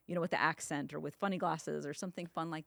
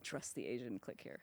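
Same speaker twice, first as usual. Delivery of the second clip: soft slogan tag; 5 semitones lower, 9 dB quieter than usual. Acted. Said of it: "that should be your slogan".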